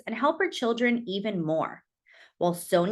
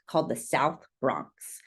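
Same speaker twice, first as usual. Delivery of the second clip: whisper; 10 semitones lower, 3 dB quieter than usual. Acted. Dramatic aside about the neighbourhood.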